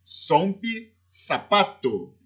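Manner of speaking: "Sombe, sapato" with z sounded as s. Shown as a demonstration. Teacher repeating Z examples, S sound in "Sombe, sapato". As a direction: open "Sombe" and "sapato" on a clean s. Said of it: "tem o som do S S do português".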